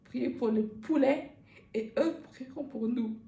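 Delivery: prêche solennel, un peu plus haut et fort; imitation du catéchiste. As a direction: imite le prêcheur bizarre. Imite Antoine au catéchisme. (imitation légère d'un catéchiste illuminé)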